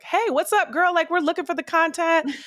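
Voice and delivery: high, bubbly valley-girl voice, mocking; imitating a girl. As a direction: mimic a chirpy fan girl checking in. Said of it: "This girl was like".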